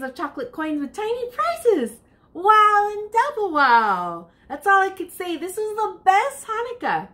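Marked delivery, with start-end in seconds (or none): 2.3-7.1 excited. A narrator's reading. Child amazed at piñata prizes, thrilled. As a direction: burst with delight.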